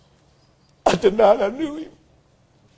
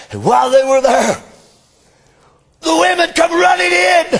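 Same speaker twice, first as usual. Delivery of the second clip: full-force preaching; 2 semitones higher than usual. Acted. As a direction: proclaim it to the whole church. Telling the resurrection morning.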